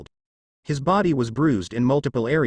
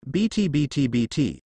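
interrupting mother. Acted. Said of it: "Ben Zayden interrupted".

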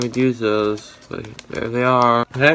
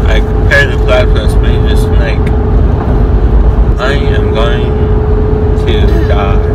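talking through held napkin; napkin held to mouth; 13 dB louder than usual. Real, not acted. Seen 0: after tongue cut, holds napkin to chin and lower lip.

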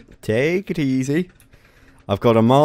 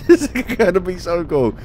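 ordinary delivery

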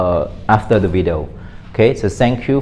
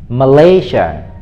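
"Malaysia" slowly, stressed on the second syllable; slow, careful "Malaysia", falling after the stress; model pronunciation; 3 dB louder, slower than usual. Shown as a demonstration. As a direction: demonstrate "Malaysia" with the weight on "lay". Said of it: "learn how to say it with me".

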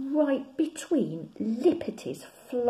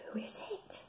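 quiet; 11 semitones higher, 14 dB quieter than usual. Acted. Bear asks, hushed.

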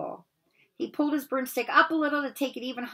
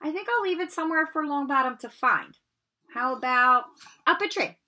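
higher, sly sneering voice; nasty smirk; 5 semitones higher, 4 dB louder than usual. Acted. Malfoy sneers at Harry, threatening to hide the Remembrall. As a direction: dangle it just out of reach. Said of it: "Malfoy smiled nastily".

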